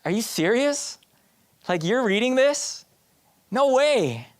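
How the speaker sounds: incredulous. Acted. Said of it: "I looked at him like".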